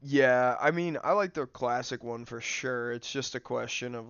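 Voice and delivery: ordinary delivery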